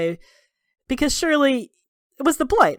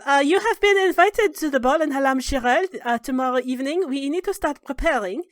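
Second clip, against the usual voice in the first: nervous servant; 6 semitones higher than usual. Acted. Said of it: "nervously says".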